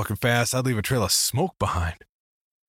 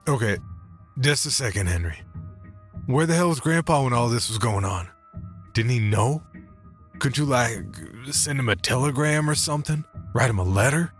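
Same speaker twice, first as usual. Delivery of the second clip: higher, incredulous interruption; pressing questions, pitched up; interjecting; 6 semitones higher than usual. Acted. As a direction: break in with rising disbelief. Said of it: "sat up straight in my seat and interjected".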